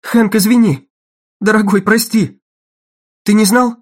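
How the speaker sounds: high, loud, rushed apology; distressed pleading. A narrator's reading. Dagny apologizes to Hank in shock, distressed pleading. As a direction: plead with him, upset and urgent.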